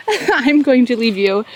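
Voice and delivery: ordinary delivery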